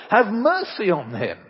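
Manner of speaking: loud pleading mother; imploring mother. Acted. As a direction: beg the emperor to spare her son. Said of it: "she implored".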